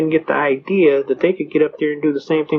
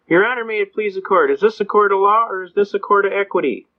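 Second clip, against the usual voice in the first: clear formal question; 4 semitones higher than usual. Shown as a demonstration. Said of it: "in the most clearest and expedient language".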